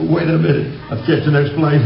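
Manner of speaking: playfully urgent comeback; eager reply. Retold or imitated. Acting out his eager reply to wife.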